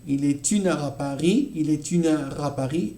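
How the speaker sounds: il est une heure à Paris, R gliding into A; enchaînement demo. Shown as a demonstration. Teacher models linked il est une heure à Paris. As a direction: link heure à smoothly. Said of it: "on a le R qui va se mélanger avec le A".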